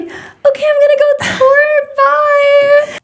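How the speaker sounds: high, bright chirpy send-off; cheerful goodbye. Retold or imitated. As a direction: sing it out like you're off on an adventure. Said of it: "Nimi got to see me be like".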